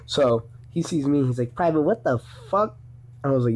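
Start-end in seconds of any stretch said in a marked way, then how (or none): 1.6-2.8 drill sergeant voice. Retold or imitated. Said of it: "Kinda has a voice like this".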